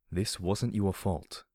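slow, gentle reassurance; soft-spoken. Acted. Companion reassures the guilty heroine, soft-spoken. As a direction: take your time and reassure softly. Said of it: "he said softly".

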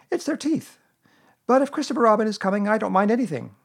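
high, earnest little creature voice. A narrator's reading. Piglet explaining his fears to Pooh, earnest. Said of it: "said Piglet earnestly".

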